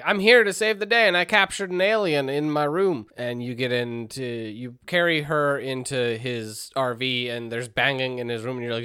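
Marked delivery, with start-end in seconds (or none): 0.0-3.1 high, loud heroic boast; heroic Bob. Retold or imitated. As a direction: burst in like a proud rescuer. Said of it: "Bob drives in ... and is like".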